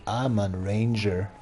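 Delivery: low, slow ranger voice; lightly voiced ranger. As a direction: announce yourself as the ranger, drawn out. Role voice as park ranger.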